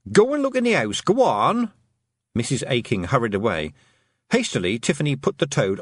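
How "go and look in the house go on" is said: high, urgent order; panicked. Acted. Mother sending Tiffany to search the house, panicked. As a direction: send them off in a high, worried voice. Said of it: "feel the panic pouring off her mother".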